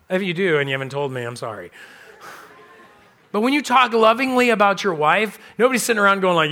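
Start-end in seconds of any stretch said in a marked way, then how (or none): none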